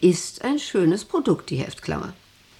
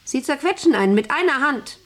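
clearer repeat; 7 semitones higher than usual. Acted.

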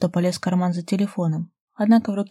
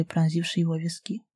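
usual speaking voice

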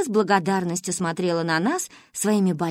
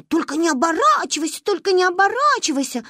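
higher, mock ghostly moan, lightly done; mock sepulchral voice; 9 semitones higher, 3 dB louder than usual. Manka mimics her friend's spooky sleep-talk, a lightly mocking sepulchral voice. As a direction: imitate the ghostly chant, hammed-up. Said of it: "загробным голосом".

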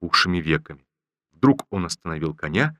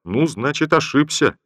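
joking; 4 semitones higher, 4 dB louder than usual. Acted. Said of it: "пошутил генерал".

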